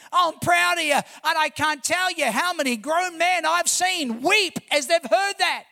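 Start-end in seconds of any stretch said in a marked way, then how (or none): 0.1-0.9 higher, louder proud declaration; fervent cry of affirmation; affirming shout. Retold or imitated. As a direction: call it out to lift him up. Affirming grown men, rising shout.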